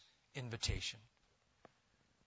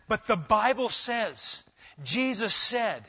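preaching climax; 7 semitones higher, 6 dB louder than usual. Acted. Preacher climax quoting Jesus.

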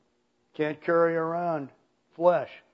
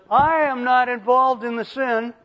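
higher, louder, insistent declaration; emphatic Paul; 7 semitones higher, 5 dB louder than usual. Acted. Preacher voicing Paul to a congregation, emphatic. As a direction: press each claim as Paul's firm protest. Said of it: "Paul says".

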